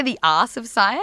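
"art" said as "arse"; "art" ending in an s sound; misheard as arse. Retold or imitated. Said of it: "did you say".

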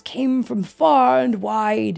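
measured, expressive read-aloud with drawn-out key words; storybook narration. A narrator's reading. Tiger telling a child his life story, storybook narration. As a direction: read it like a picture book, savoring words.

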